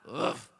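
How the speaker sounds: imitated dog huff, low and short; insistent mock dog huff. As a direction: huff like an ignored dog trying harder. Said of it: "he'll get a little louder".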